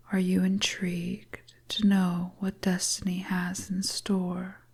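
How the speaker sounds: lightly voiced enchantress, whispered and lulling; dreamy whisper. Fortune teller tempting the traveller with the cards, dreamy whisper. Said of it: "a voice that makes you feel like you're floating on a cloud".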